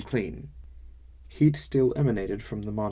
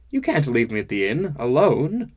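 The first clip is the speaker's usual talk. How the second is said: louder, rising to a high panicked cry; frantic plea; 5 semitones higher, 8 dB louder than usual. Acted. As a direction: beg not to be left alone. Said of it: "I was near franticness".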